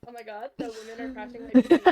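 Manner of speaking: loud mock gamer complaint; whining gamer. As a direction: wail it as a comically aggrieved gamer. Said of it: "that's how people always talk".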